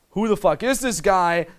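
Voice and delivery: put-on girl's intrigued inner voice. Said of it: "she's like".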